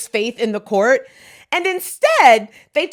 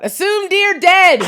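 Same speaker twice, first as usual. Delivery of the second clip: laughing; 7 semitones higher, slower than usual. Retold or imitated. Quoting a meme, laughing.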